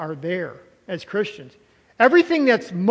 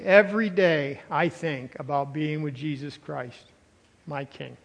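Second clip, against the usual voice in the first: lower, softer, reverent confiding as Paul; quiet imagined Paul; 5 semitones lower, 6 dB quieter than usual. Acted. Preacher imagining Paul's daily longing for Christ, hushed and low. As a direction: voice Paul's devotion softly, dropping away at the end. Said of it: "I'm sure he'd say it this way".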